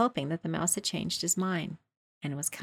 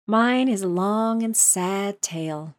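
slow, loud and mournful; sad sighing mouse; 3 semitones higher, 5 dB louder, slower than usual. Acted.

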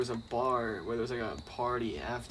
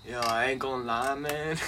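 imitating coworker; 4 dB louder than usual. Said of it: "he used to always be like".

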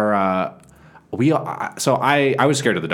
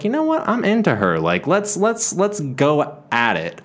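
mock demon; 9 semitones higher than usual. Demon voiced in retelling.

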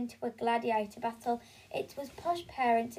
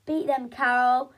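1 warning shout; 8 dB louder than usual. Acted. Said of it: "Belinda warned".

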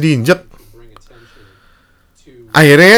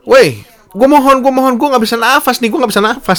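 imitated desperate begging; 12 semitones higher than usual. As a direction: stretch out each word, begging for breath. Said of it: "Kalau bahasa Indonesia mungkin".

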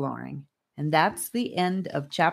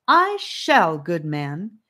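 theatrical; 2 semitones higher, 6 dB louder, slower than usual. Acted. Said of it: "returning to the theatrical".

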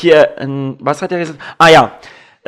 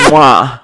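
short fake gagging noise; mock retch. Storyteller acts out being sickened by harassers, mock retching. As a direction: pretend to throw up. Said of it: "weil ich kotz gleich".

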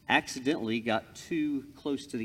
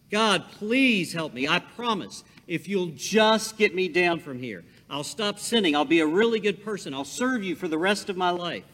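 pleading; 4 semitones higher, 4 dB louder than usual. Acted. Jack bargains with God.

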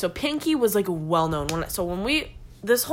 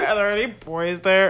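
monotone; 3 dB louder than usual. Retold or imitated. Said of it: "so, like, monotone".

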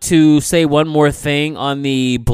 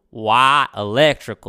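put-on slower second try at an Alabama accent on White Electrical; slow, careful Alabama accent attempt; Alabama accent retry; slower than usual. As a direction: take another, slower shot at the Alabama accent. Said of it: "that's not a good Alabama voice".

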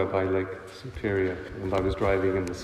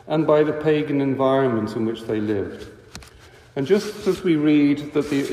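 fervent preaching; 2 semitones higher than usual. Acted. Priest to parish, preaching Saint Paul with fervour. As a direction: lift the homily up with full conviction.

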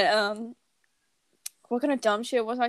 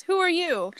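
fake voice; 9 semitones higher than usual. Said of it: "Why do you sound so fake?".

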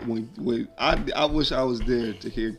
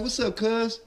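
cool dad greeting; 8 semitones higher, slower than usual. Retold or imitated. Same greeting repeated.

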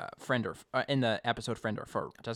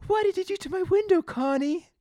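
much higher, louder indignant Bart; mock Bart outrage; 8 dB louder than usual. Bart confronting Connie about his broken window, higher and louder. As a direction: demand it of Connie in comic outrage. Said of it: "it's a funny line".

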